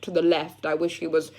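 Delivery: put-on posh English accent; lightly posh, trying to sound refined. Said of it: "I was putting on a nice voice for you".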